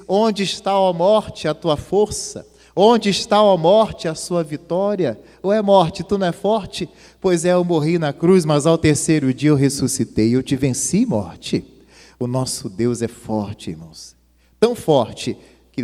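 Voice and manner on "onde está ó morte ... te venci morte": higher, louder mocking challenge to death; triumphant Jesus. Jesus defying death after rising, triumphant taunt. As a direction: taunt death with victorious scorn.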